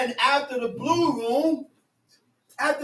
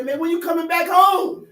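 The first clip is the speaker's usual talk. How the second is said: calling out; 4 semitones higher, 4 dB louder than usual. Retold or imitated.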